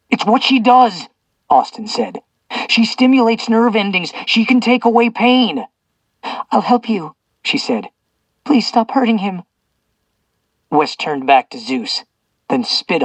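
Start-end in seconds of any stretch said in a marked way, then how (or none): 0.1-9.4 put-on high earnest pleading girl voice; lightly voiced young woman pleading. A narrator's reading. Young characters voiced higher.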